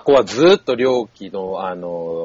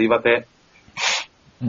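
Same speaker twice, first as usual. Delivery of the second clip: blowing nose; 3 dB quieter, much slower than usual. Real, not acted. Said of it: "僕鼻かんでいい？".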